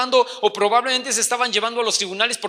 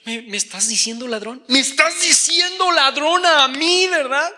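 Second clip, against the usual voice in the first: mock indignant; 5 semitones higher, 3 dB louder than usual. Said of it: "mock quarrel, offended voice".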